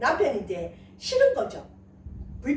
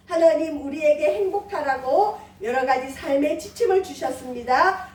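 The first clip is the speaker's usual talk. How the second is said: closing prayer. Acted. Pastor praying over the congregation in a steady prayer voice. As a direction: pray it over the church, measured.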